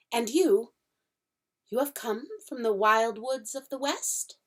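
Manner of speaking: a jittery faun asking shyly; fawn's voice, flustered and polite; nervous fawn. Acted. Fawn voice held.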